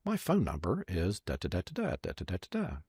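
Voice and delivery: softly spoken, digits as placeholder syllables; quiet imitation of personal delivery; one-to-one address. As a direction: give it privately to a single listener. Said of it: "He looks at the next person".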